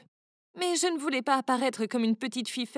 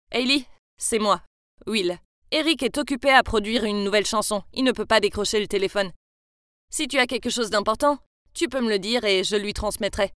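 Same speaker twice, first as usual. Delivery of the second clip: lightly voiced young man; 4 semitones lower, 3 dB louder than usual. Will answers Eric's phone.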